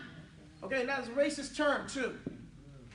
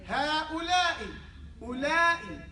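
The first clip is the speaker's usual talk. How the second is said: slow model word; much slower than usual. Shown as a demonstration. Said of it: "Ha is just before ula'ik".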